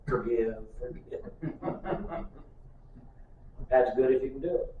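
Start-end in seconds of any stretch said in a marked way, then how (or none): 0.1-1.2 put-on toddler voice. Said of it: "Little two and a half year old darling".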